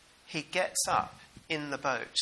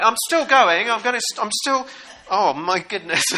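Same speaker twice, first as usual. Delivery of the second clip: high, loud, breathless beach walker; mock struggle; 6 semitones higher, 8 dB louder than usual. A walker battling the tide on a thin beach, high and loud. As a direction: push on against the waves. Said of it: "you're sort of like".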